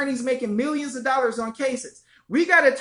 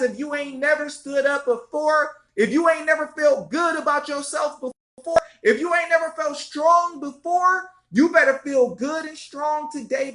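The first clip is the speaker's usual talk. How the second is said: rousing rally cry; 3 semitones higher than usual. Real, not acted. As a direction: fire up the crowd, climbing in pitch. Rallying viewers to stand up.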